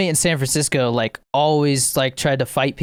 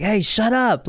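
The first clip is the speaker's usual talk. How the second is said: mock annoyed call, pitched up; annoyed scolding; 6 semitones higher, slower than usual. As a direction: imitate a fed-up passenger. Voices annoyed people yelling at drunks.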